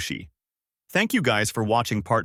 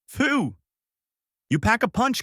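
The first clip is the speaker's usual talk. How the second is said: winded, high exclamations after a hit; catching his breath; 12 semitones higher than usual. Acted. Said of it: "catches his breath".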